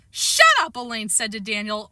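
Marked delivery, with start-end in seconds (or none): 0.1-0.8 pitched-up exasperated outburst; irritated. Acted. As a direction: cut the kid off crossly. Girl snapping at small boy.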